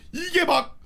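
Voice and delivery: ordinary talk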